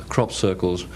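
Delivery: usual speaking voice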